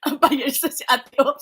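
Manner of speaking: whispered teasing aside, quick. Real, not acted. Vlogger whispering a tease about ate on live.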